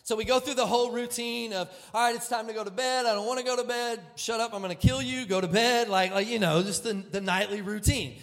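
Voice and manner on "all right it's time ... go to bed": fast, loud, higher voices playing the kids; mock bedtime squabble. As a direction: rattle off the kids' bedtime fight. Acted bedtime quarrel between kids.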